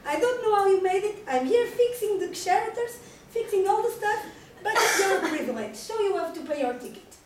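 loud scolding tirade, a laugh creeping in; angry big mouse. Acted. The big mad mouse scolding the intruder, loud and angry. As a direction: tell off the trespasser, loud and exasperated. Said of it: "a big mad mouse".

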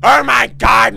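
sudden loud exclamation; startled outburst. Real, not acted. Player reacts to a box, startled. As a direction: blurt it out in alarm.

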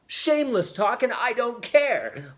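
high, loud, exuberant retort; gleeful defiance. A narrator's reading. Judith answers her father's rebuke, gleefully defiant. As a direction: toss it back brazenly, pitched right up. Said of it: "laughed Judith".

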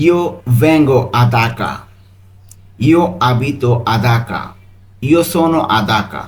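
each Italian option said very slowly and distinctly; slow model reading. Shown as a demonstration. Teacher reading Italian answer options to students, very slow. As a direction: spell it out slowly for learners. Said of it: "এর Italian কি হতে পারে?".

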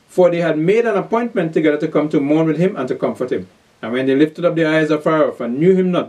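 measured, declaimed Bible reading; scripture reading. Acted. Preacher reads of Job's three friends, declaimed scripture reading. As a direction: read the verses out clearly to listeners.

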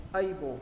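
"Able" with the ending sounded as O; L read as O. Shown as a demonstration. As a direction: say "Able" with a final O in place of the L. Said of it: "ơ với L là O này".

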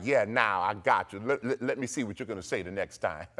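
low, offhand king voice, chuckling after; lightly voiced smug king; gloating king. King to the men thrown in the fire, gloating. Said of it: "the king was like".

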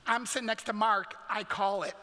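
lightly imitated kid calling dibs; mock childish announcement; little sister. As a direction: claim the seat loudly like a little kid. Imitates little sister claiming seat.

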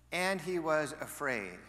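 And he was afraid, said slowly and heavily; slow, weighted repeat. Shown as a demonstration. Pastor repeating the verse slowly to the congregation. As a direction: let the verse sink in. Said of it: "repeats the verse slowly".

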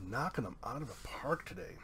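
quick, soft whisper; whispered aside. Real, not acted. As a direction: whisper it quickly, pleased with the luck. Hushed aside on good pulls.

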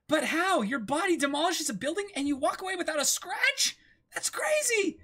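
put-on very high, loud girl voice; Nami's voice, high. Reading Nami's amazement in a very high squeal. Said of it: "now you're doing Nami".

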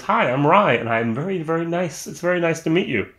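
polite talking whiskey. Pretend. Reviewer gives the rye a polite voice greeting the viewer, lightly voiced. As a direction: make the whiskey say hello with a polite touch. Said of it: "It's almost polite".

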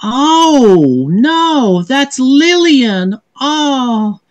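high, drawn-out distressed princess; dismayed princess. Acted. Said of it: "looks at the image and she says".

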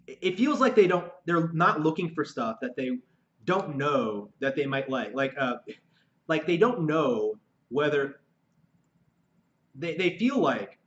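halting, stuttering speech. Real, not acted. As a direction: stumble and restart words. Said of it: "that's why I'm stuttering so much".

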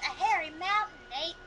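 put-on light Australian accent. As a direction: say it like an Aussie. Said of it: "mountain with an Australian accent".

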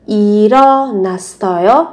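일어났어요 run together as i-reo-na-sseo-yo; linked sounds. Shown as a demonstration. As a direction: link the final consonants of 일어났어요 into the next vowels. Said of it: "nối âm lên".

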